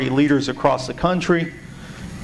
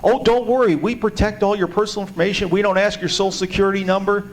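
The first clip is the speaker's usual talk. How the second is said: higher, breezy official soothing worries; mock reassurance; 5 semitones higher than usual. Census Bureau answering people protesting the questions, mock-reassuring. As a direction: play a bureau brushing off worries, pitched up. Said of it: "keep people from protesting this obscenity by saying".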